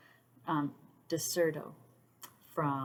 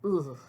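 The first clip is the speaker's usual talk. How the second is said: short, louder groan of dread; creeped-out ugh; 6 dB louder than usual. Real, not acted. Reacting to the Man in Black story, creeped-out groan. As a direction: shudder it out as "ugh".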